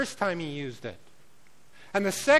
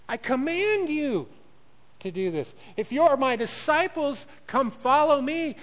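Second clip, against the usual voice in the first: a raised preacher's voice of Jesus giving orders; commanding Jesus; 5 semitones higher than usual. Acted. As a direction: speak as Jesus laying down the law.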